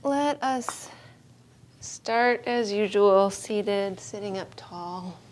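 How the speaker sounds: unhurried yoga-teacher guidance with long pauses; calm, spacious meditation instruction; guided meditation. Real, not acted. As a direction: settle the class into stillness, phrase by phrase. Leads seated body meditation.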